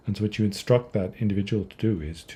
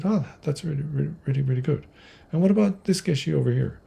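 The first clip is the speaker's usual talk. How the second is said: Atisha's delight; 7 semitones higher than usual. Retold or imitated. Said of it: "And Atisha said".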